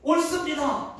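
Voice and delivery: a loud defiant yes; defiant shout. Acted. Jonah defiantly answering God, shouting. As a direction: Jonah yelling back at God. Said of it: "라고 얘기를 했어요".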